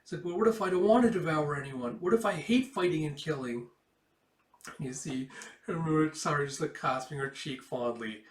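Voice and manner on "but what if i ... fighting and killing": put-on higher, louder, pleading child's voice; a scared kid begging not to fight. Child Micah pleading with queen.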